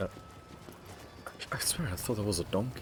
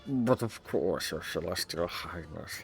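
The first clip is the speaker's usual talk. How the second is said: a fawning governor greeting honoured guests; smooth governor. Acted. Voiced governor continues.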